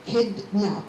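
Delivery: put-on kidnap said slowly as kid, nap; slow, measured kidnap in two beats; split into syllables. Shown as a demonstration. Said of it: "If it's two syllables".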